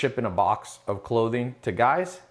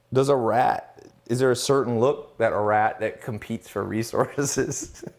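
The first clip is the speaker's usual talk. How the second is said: laughing. Real, not acted. Laughing at the comment.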